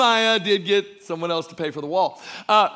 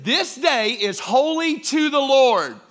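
louder, slow, preaching the verse; preacher booming the verse, louder and slow; preached out loud; 2 semitones higher, slower than usual. Shown as a demonstration. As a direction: proclaim it to the congregation. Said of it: "he said".

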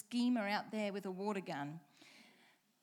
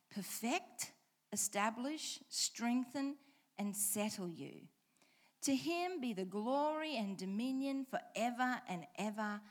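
measured, deliberate Bible reading; unhurried pulpit reading of scripture. Acted. Pastor reads verse ten.

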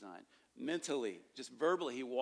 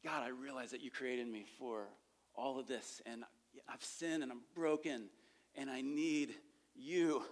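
demo prayer. Shown as a demonstration. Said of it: "here's a prayer".

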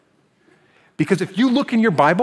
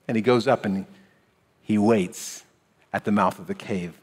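ordinary talk, nothing marked

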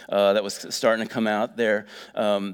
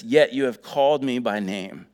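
reading lyrics. Shown as a demonstration. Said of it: "it says this".

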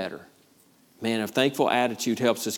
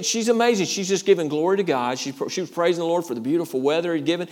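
ordinary talk

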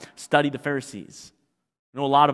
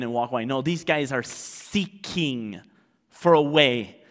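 ordinary talk, nothing marked

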